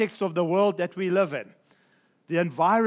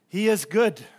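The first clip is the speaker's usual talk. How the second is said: good lands on a falling tune after the pause, a touch louder; stress on good; 4 dB louder than usual. Shown as a demonstration. Pastor stressing his point to the congregation, hammering good. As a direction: set it down firmly. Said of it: "I'm wanting to emphasize this statement".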